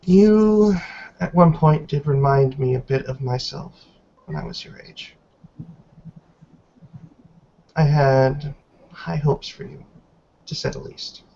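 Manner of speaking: put-on measured, grave reproach from an old woman; lightly voiced stern elder. Elder matriarch scolding Miss Stewart in her cell, stern and disappointed.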